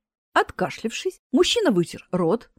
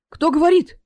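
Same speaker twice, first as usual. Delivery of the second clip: higher, louder scared question; frightened cry; 7 semitones higher, 6 dB louder than usual. A narrator's reading. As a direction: spin round in fright. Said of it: "испуганно закрутился".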